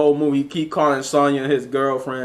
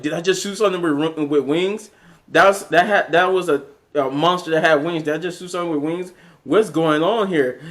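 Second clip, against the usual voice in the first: higher-pitched, mildly panicked disbelief; mock freak-out; 3 semitones higher than usual. Stryker reacts to shooting a winged monster, mock freak-out. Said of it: "Stryker freaking out because he's like".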